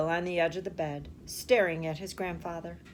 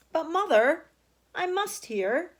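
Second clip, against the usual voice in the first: pleading; 8 semitones higher, 4 dB louder than usual. A narrator's reading. Charlie pleading to stay up.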